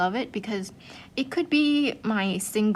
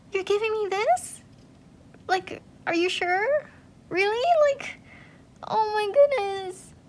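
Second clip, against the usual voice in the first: much higher, disbelieving and overwhelmed; stunned gratitude; 12 semitones higher, 3 dB louder than usual. Retold or imitated. Retelling getting a gift, high disbelieving squeal. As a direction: squeal it like you can't believe the gift. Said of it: "I'm like".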